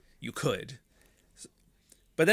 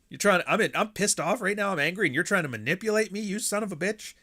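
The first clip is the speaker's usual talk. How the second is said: angry wife; 7 semitones higher than usual. Retold or imitated. Voicing angry wife's side.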